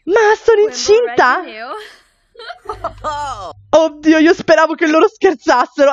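a touch of dismay; surprised brother. Acted.

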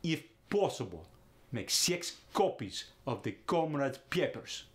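Russian ah vowels throughout; Russian accent. Shown as a demonstration. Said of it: "Goes to".

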